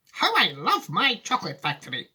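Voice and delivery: put-on a fond, wistful old sweet-maker; Willy Wonka voice.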